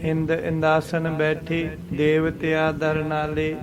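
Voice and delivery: measured scripture line; slow recitation. Shown as a demonstration. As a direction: read slowly and carefully. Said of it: "ਇਸ ਤਰ੍ਹਾਂ".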